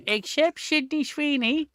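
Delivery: slow, high, menacing Butcher growl. Pretend. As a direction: drag it out like the Butcher. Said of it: "do it in the Butcher's voice".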